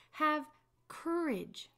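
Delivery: high, loud call across the water. Acted. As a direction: call it firmly over the storm. Jesus calls out over waves.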